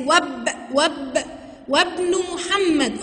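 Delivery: slow "واب" with wa joined to b; "وابن" drawn out, alef skipped; alef left silent. Shown as a demonstration. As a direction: say "وابن" as wabn, no glottal stop. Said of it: "آه، ما نطقتش الألف".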